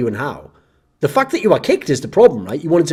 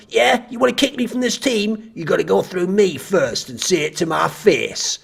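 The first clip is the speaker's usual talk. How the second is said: mock tough guy; 3 semitones higher, 4 dB quieter than usual.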